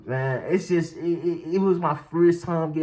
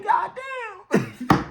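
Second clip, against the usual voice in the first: retold dismay; 14 semitones higher than usual. Retold reaction at the mirror.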